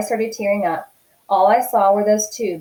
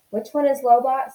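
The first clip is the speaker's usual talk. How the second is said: calmly; 5 semitones higher than usual. A narrator's reading. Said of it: "said Mom calmly".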